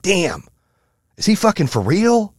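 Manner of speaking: imitating a doubter: is he for real; mock disbelief. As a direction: mimic a sceptical listener. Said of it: "some of you right now are like".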